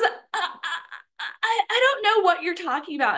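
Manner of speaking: high-pitched mock stammer; gaslighting cashier. Cashier denying it to the angry customer, mock flustered. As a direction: imitate her stumbling denial in a high voice. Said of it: "she starts gaslighting me".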